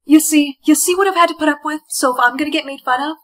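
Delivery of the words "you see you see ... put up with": loud, fed-up protest; exasperated complaint. Acted. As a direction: complain loudly to prove the point. Complains after being laughed at.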